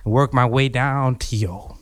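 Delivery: slow, drawn-out seduction; slow seductive. Acted. Seductive date pitch.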